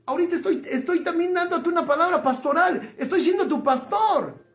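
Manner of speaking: chuckling through the words; light laughing confession. Real, not acted. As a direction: laugh as you admit it. Laughs while admitting.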